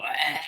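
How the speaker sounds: imitated "ah" reaction to turmeric; imitated throat noise. Podcaster showing what turmeric coffee does to them, imitated throat noise. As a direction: mimic the noise the coffee draws out. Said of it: "makes me go".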